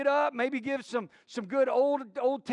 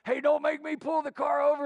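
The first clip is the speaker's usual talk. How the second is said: mock parental warning, higher; raised, exasperated driver's warning; 4 semitones higher, 4 dB louder than usual. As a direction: warn the kids in the back seat. Parent warns kids in retold drive.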